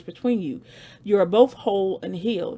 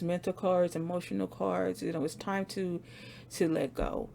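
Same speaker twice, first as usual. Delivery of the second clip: softer, tender reassuring voice; gentle reassurance; 5 dB quieter than usual. Real, not acted. Reader comforts hesitant viewers that it's okay, soft and tender. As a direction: ease them into letting go, softly.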